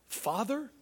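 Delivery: soft, mildly disbelieving question; stunned question. Retold or imitated. Acting disciples who heard God called Father, hushed surprise. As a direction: let it rise quietly, as if taken aback.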